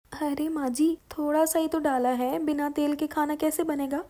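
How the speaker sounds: daughter-in-law arguing back with her mother-in-law; protesting daughter-in-law. Acted. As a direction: plead her case loudly.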